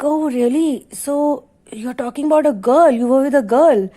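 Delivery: lightly acted nosy friend; mock-curious friend probing; teasing disbelief. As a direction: draw out the "oh, really" teasingly. Friend teases about the girl.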